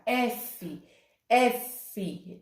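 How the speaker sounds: "F" said slowly and softly, air through the mouth; teacher demonstrating "F"; F sound demo. Shown as a demonstration. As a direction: let the breath out on each "F". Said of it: "o som do F, ele sai pela boca".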